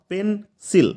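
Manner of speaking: পেন্সিল as two parts, পেন – সিল; split into syllables. Shown as a demonstration. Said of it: "দুটা করে ভাগ".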